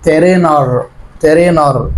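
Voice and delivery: ترينر with the ay sound; reading trainer aloud. Shown as a demonstration. Teacher reading ترينر for the class. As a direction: say ترينر clearly. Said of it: "طب اللي بعديها ترينر".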